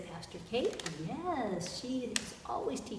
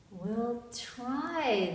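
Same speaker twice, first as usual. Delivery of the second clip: higher, sighed-out reply; resigned sigh; 4 semitones higher than usual. A narrator's reading. Fishermen answer Jesus about throwing out nets, sighing. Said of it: "they sighed".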